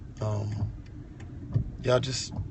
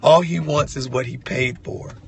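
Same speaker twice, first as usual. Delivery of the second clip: exclaiming; 5 semitones higher, 7 dB louder than usual. Real, not acted. Exclaiming about God.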